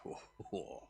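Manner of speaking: a hushed, amazed sigh of words; awed whisper. Pretend. The Lord, moved by a believer's step, whispering in awe. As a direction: breathe out a soft whispered oh. The Lord's awed reaction, imagined.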